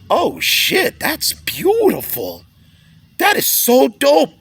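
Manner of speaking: high, awed outburst with a shout on beautiful; amazed delight. Retold or imitated. A grown man marvelling at beauty like a child, excited. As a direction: gush over something wonderful. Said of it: "I see stuff sometime and I go".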